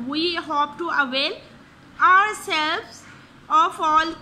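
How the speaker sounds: slow, careful dictation of each sentence; slow example reading. Shown as a demonstration. Teacher to students, reading examples at a slow dictation pace. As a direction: read each example slowly for the class.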